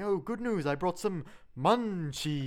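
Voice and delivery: a hint of Mister Burns, slow on munchies; lightly voiced Burns. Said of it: "just Mister Burns going".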